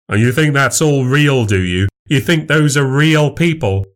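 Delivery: scornful challenge. Acted. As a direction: cast doubt on her friends. Husband challenges wife.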